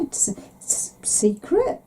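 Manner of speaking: slow, breathy mock whisper of a secret. Mum whispers to her daughter that it's secret. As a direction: hush it like a playful secret.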